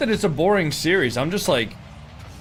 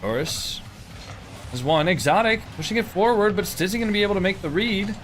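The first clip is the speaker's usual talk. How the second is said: play-by-play. Acted. Live match commentary.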